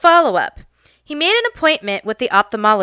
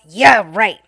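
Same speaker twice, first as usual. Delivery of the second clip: mock growl; 4 dB louder than usual. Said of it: "He growls".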